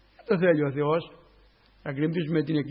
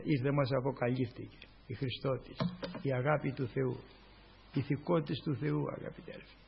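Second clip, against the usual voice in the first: hushed awe; 6 semitones lower, 10 dB quieter than usual. Real, not acted. Sermon drops into hushed awe.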